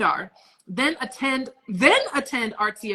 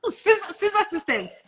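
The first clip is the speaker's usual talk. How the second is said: high, slow teasing chant; sing-song it up high; playful high voice; 9 semitones higher, slower than usual. Acted.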